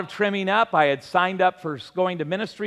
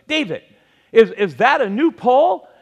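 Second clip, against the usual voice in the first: wife's holler retold, pitched higher; imitated holler; 4 semitones higher, 5 dB louder than usual. Wife catching her husband with a new pole, mock hollering. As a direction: call out the question, louder as it goes. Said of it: "You shouldn't have hollered at me".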